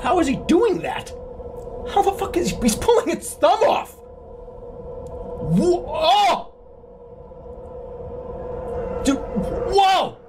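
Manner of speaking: high, amazed outburst; stunned disbelief. Real, not acted. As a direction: react like you can't believe your eyes. Shocked at game moment.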